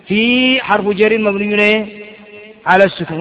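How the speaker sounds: slow recitation. Shown as a demonstration. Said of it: "ولا تقول الفاء كما يقول بعض الطلاب".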